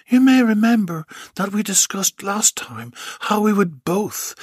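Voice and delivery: high, commanding woman doctor; a lightly voiced stern doctor; bossy doctor voice. Doctor speaks to Bill.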